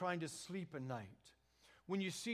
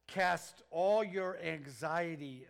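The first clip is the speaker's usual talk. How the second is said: slow scripture reading; 6 dB louder, much slower than usual. Acted. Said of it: "the Apostle Peter says this".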